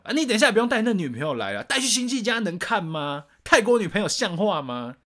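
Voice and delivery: snide mom, fast and high; nagging mom lecture. Retold or imitated. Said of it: "我妈又嘴贱，我妈在说".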